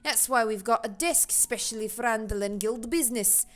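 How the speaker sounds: put-on Jamaican accent. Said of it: "That was the switch into Jamaican".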